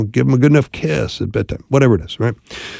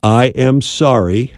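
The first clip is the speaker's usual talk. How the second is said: sincere apology; slower than usual. Shown as a demonstration. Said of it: "six very powerful words".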